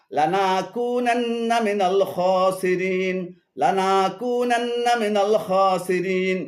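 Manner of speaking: "লানাকুনান্না" split as "লানা" and "কুনান্না", said slowly; wrong recitation. Shown as a demonstration. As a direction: break after "লানা". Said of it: "অশুদ্ধ পাঠ হলো". ("লানা"-র পরে থেমে ভুল পাঠ)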